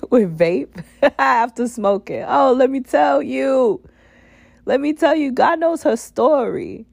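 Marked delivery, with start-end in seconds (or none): 2.3-6.8 emphatic exclaiming. Real, not acted. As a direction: lift it up and testify.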